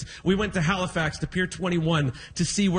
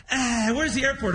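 mock weariness; 3 semitones higher than usual. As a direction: groan first, then ask. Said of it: "he's tired already".

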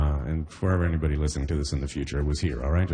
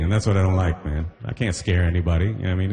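usual speaking voice

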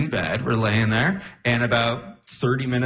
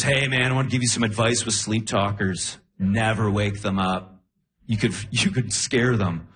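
earnest fan advice; 6 semitones lower than usual. Retold or imitated. Imitating audience member giving solemn advice, low. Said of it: "and he goes".

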